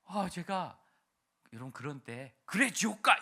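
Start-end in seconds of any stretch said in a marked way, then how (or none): 2.4-3.2 much higher, much louder snapped curse; mock angry retort. Evangelist snapping at a crying child, mock furious shout. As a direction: fling it back as a bad example. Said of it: "이러면 안 되는 거예요".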